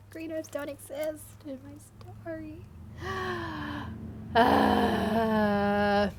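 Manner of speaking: whiny fake sob; hammed-up whimpering; mock crying. Mock whine about own story.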